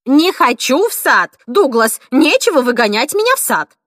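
put-on old woman refusing the garden; loud protest. A narrator's reading. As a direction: shout him down.

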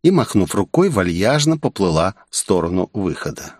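ordinary delivery, nothing marked

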